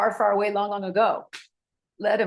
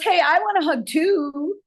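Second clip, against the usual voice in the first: a lightly voiced, higher, louder eager young guy; eager second guy; 9 semitones higher, 4 dB louder than usual. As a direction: play the buddy jumping in for a hug. Other guy asks for hug.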